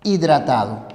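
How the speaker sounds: "hidratado" aparte, más grave, tras una pausa; segunda parte separada. Shown as a demonstration. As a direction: di "hidratado" suelto, cerrando en tono bajo. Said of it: "en el siguiente renglón colocas". ("hidratado" aislado, con tono descendente)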